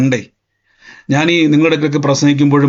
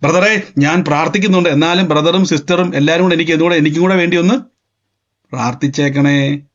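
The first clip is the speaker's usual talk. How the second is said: doubting plea. Shown as a demonstration. Doubter asking brother and sister for prayer, mock pleading. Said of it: "സംശയമുള്ളത് കൊണ്ടാ".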